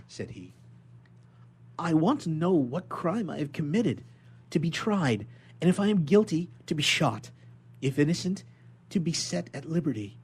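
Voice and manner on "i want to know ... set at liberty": higher, louder desperate pleading; urgent plea. Acted. Prisoner begging the inspector for justice, higher and louder. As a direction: beg him for a trial.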